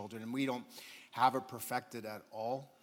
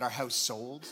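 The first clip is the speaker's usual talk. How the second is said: excited announcement; slower than usual. Real, not acted. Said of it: "but I just gotta say it".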